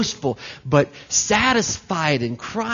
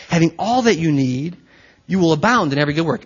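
fast rereading; faster than usual. Shown as a demonstration. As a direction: rattle off "you will abound in every good work" quickly in one breath. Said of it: "That sentence is a mouthful".

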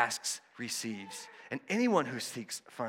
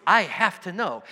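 urgent longing; 6 semitones higher, 10 dB louder than usual. Pretend. Disciple's urgent desire to learn.

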